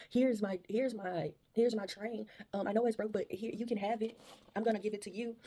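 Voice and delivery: lightly voiced little boy, earnest and shy. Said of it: "the little boy saying".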